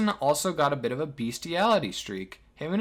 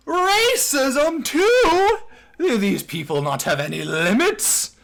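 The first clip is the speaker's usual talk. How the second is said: high, loud cry of disbelief; appalled shriek easing into a loud question; incredulous outburst; 12 semitones higher, 7 dB louder, slower than usual. Real, not acted. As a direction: exclaim it as if pushed past all belief. Appalled reaction to further accusation.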